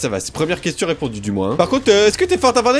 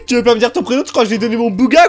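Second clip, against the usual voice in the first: laughing; 4 semitones higher, 4 dB louder than usual. Real, not acted. Laughs while teasing.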